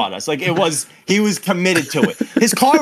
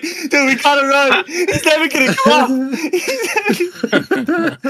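high, breaking into laughter as he pleads; laughing panic; 9 semitones higher than usual. Retold or imitated. Friend Sean urged to keep running, laughing in panic. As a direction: panic dissolving into giggles. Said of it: "we were, like, crying at one point".

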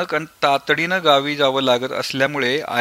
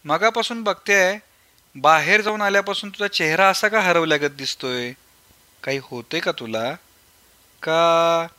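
higher, anxious mother's voice; worried mother; 4 semitones higher than usual. Acted. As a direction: ask gently like a concerned mother. Mother asks the worried son. (काळजीत आईचा आवाज)

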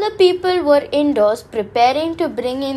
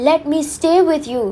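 begging; 4 semitones higher, faster than usual. Acted. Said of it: "she begged".

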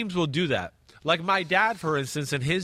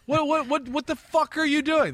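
mock furious coach; 9 semitones higher than usual. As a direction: chew out the lineman. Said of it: "That's how I would say it".

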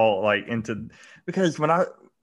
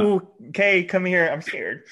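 mock scared; 5 semitones higher than usual.

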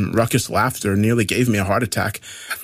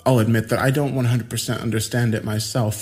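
put-on eccentric young man; 3 semitones higher than usual. Voices Adrian.

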